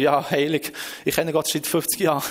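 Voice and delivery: mock-indifferent believer; jaded, routine. Long-time Christian used to God, routine indifference. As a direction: toss it off out of habit. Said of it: "ein bisschen Gewohnheit für mich geworden".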